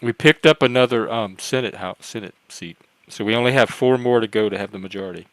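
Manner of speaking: talking while chewing food; words muffled around a bite; mouth full. Real, not acted. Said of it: "stop talking with your mouth full".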